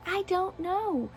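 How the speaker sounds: a soft, slow, baffled "I don't know"; drawn-out shrug. Real, not acted. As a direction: let "I don't know" trail off, helplessly.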